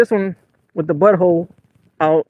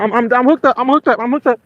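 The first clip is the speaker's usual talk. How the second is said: excited; 6 semitones higher than usual. Real, not acted. Fish on the line, excited.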